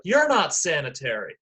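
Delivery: mild mock yell, no real volume; retold scream. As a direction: imitate a kid firing back. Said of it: "they screamed back and forth".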